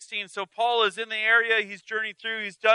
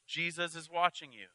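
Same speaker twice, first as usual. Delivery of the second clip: eerie voice; 7 dB quieter than usual. Acted. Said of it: "He again heard".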